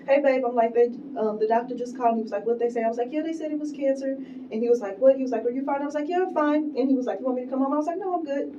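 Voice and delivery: high, giggly retelling; laughing while retelling. Retold or imitated. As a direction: laugh through the quotes. Retelling call with husband, laughing.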